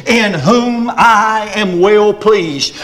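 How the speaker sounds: slow, solemn voice from heaven; lightly voiced heavenly Father, slowed down. Preacher voicing God at the baptism, slow and solemn. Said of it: "like this".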